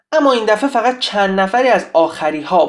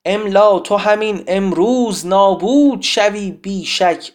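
epic poem recital; 4 dB louder, slower than usual. Acted. Teacher recites Siavash's poem to the class, epic declamation. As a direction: declaim it in a measured, emphatic metre.

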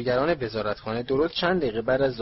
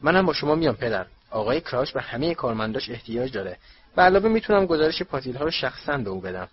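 self-righteous; 2 semitones higher, 4 dB louder than usual. Acted. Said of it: "با حالت حق به جانب گفت".

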